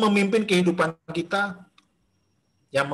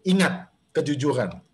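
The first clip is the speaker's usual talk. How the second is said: gentle reminder; 2 semitones lower than usual. Shown as a demonstration. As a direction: let "Ingat kejujuran" come as a calm inner voice. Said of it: "ngomongnya gini".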